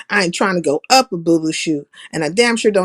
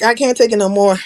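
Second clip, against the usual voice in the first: louder, spoken plainly to the listener; faster than usual. Retold or imitated. Fed up with a friend's talk, blurting it out loud. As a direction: let it slip out loud this time. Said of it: "And then it comes out verbally".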